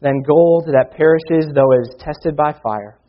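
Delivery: measured, earnest Bible reading; scripture reading. Acted. Preacher reading Peter to his church, earnest reading voice. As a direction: read the verses aloud to the congregation. Reads scripture passage to congregation.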